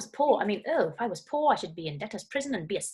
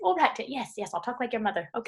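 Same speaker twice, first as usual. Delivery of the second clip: re-enacted motherly giving-in, raised in pitch and level; exasperated-mum reply, played lightly; mother placating child. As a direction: humour a cross little son. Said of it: "I said".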